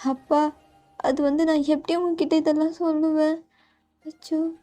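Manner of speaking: put-on a girl too embarrassed to tell her dad; daughter's voice. Daughter hesitant before father. (அப்பாவிடம் தயங்கும் மகள், மென்மையாக)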